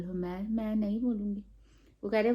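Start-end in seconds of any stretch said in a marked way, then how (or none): 0.5-1.4 softer, stubborn no; sulky refusal. Retold or imitated. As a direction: refuse quietly, dig in. Child refusing mom. (धीमे से ज़िद्दी इनकार)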